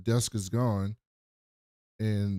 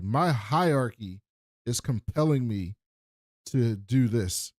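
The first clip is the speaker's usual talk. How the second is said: slow, measured robot delivery; lightly robotic, halting between phrases; slower than usual. Retold or imitated. She tells Brother Dude she must obey, slow robot. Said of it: "she immediately, like, turns into a robot".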